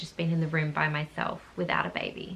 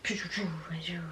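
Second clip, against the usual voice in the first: calm doctor shushing noises; 7 dB quieter than usual. Retold or imitated. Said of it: "one doctor that's just like".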